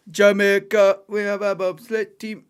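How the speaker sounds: loud, excited film-quote delivery; Cool Runnings quote. Pretend. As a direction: shout it like the bobsleigh coach.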